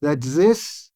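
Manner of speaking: measured, unhurried therapist talking to a client; slow it right down, calmly. Shown as a demonstration. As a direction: speak slowly and deliberately, with pauses between phrases. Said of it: "I would say this in a slow voice".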